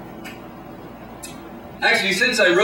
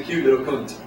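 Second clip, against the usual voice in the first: lightly Scottish, lower-pitched; sheepish correction in light Scots; Scottish accent; 4 semitones lower than usual. Acted. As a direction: say it with a hint of Scottish. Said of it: "my Scottish accent extended past".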